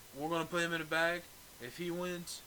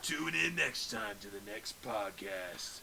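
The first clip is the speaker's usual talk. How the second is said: announcer voice; 6 semitones lower, 4 dB quieter, much slower than usual. Pretend. Mock show announcer.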